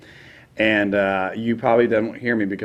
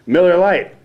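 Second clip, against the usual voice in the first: mock sponsor read; 3 semitones higher than usual. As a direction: punch the brand, then ease into the joke. Retold on-air sponsor read.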